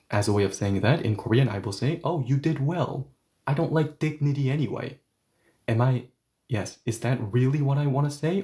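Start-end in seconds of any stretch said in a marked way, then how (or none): 2.0-5.0 lightly mock-admiring; sarcastic praise. Shown as a demonstration. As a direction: congratulate with a touch of irony. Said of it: "or am I being sarcastic?".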